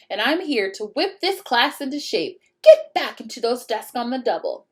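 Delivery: stern witch teacher. Acted. Witch teacher ordering class.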